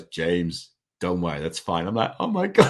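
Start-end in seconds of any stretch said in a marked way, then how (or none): 0.0-1.9 put-on a light, lower American accent, easygoing and kind; uncleish American voice. Guide on the cliff reassuring James, lightly imitated American uncle. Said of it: "uncleish, uh, American voice". 2.2-2.7 higher and louder, laughing through the panic; a frightened laugh breaking into the words; panicked laugh. Retold or imitated. Stuck at the cliff top, laughing in panic.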